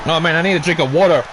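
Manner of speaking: speaking through hiccups; hiccuping while talking. Real, not acted. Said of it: "These hiccups are not going away".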